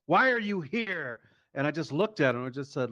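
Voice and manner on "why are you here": a hint of a cop. Officer questioning the driver at his house, mildly higher puzzled voice. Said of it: "And he goes".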